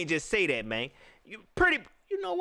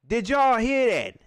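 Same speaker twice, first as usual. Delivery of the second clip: incredulous; 5 semitones higher, 6 dB louder, slower than usual. Real, not acted. Fan reacting in disbelief.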